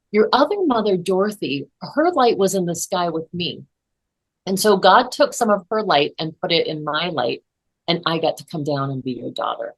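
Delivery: a hint of a child telling a secret; child's voice. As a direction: lightly voice the daughter explaining. Child voiced in retold story.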